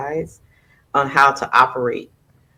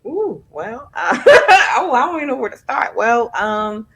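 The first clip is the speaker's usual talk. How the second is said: flustered laugh; 8 semitones higher, 4 dB louder than usual. Real, not acted. Surprised by big question.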